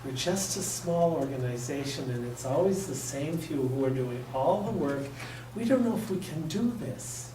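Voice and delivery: mock-weary quote of a small group, rising on the last line; whiny volunteer complaint. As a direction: imitate the tired few who always do the work. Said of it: "their normal comment is".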